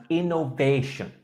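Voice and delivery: innovation with a long A in the third syllable. Shown as a demonstration. Teacher modelling word for student, "innovation" with long "VAY". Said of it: "The third syllable is that long A sound".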